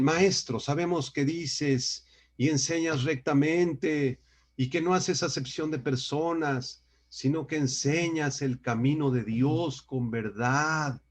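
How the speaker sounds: slow, drawn-out honeyed praise; mock flattery. Perverse spies buttering up Jesus to trap him, mock flattery. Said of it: "un pecado que se llama lisonja".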